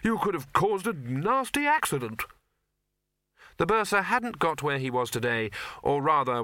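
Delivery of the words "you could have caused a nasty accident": put-on raised, blustering old wizard; glaring gruff old man. A narrator's reading. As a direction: scold him with a glare. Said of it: "glared at him".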